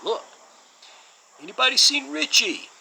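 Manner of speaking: failed impression, yelling out in a high-pitched New York voice; Steven Seagal. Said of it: "and I can't do it".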